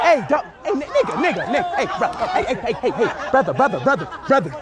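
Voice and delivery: laughing protest. Real, not acted. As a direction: scold while cracking up. Laughing at false start.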